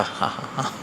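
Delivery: breathy, quiet ha-ha-ha; acted laughter. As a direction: imitate the laughing man, softly. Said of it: "हंस रहा था". (हँसते आदमी की नकल में धीमी हँसी)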